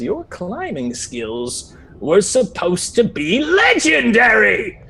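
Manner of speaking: high, slow, drawn-out reproach; disappointed challenge. Acted. Examiner flying up to the failed climber, reproachful. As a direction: stretch it out, swooping up in accusation.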